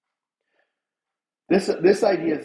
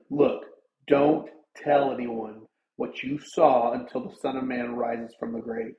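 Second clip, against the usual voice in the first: stern. Pretend. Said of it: "Maybe he said it very sternly".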